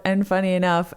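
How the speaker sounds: ordinary talk, nothing marked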